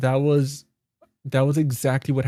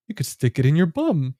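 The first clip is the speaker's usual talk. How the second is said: acted-out comic retort, rising higher; mock instruction; 5 semitones higher than usual. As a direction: draw out the last part, higher and teasing. Retelling a film's comic insult.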